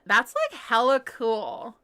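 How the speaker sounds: lightly put-on Valley Girl drawl; Valley Girl accent. Shown as a demonstration. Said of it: "With the Valley Girl accent".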